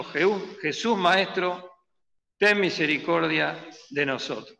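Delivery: drawn-out Jesús, Maestro, begging; a slow lifted plea for mercy; slow pleading cry. Retold or imitated. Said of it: "Y alzaron la voz".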